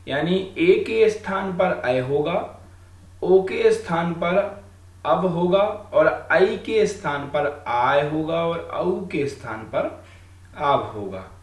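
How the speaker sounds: slow, spaced-out teaching delivery; measured dictation for students; deliberately slow. Shown as a demonstration. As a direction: say each rule slowly so it sinks in. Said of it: "इसलिए हम आराम से बोल रहे हैं".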